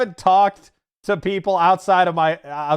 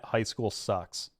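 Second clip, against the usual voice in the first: slow, softer flat verdict; slow blunt; 6 semitones lower, 9 dB quieter, much slower than usual. Shown as a demonstration. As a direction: drop it low and slow. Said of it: "What do you think, chat?".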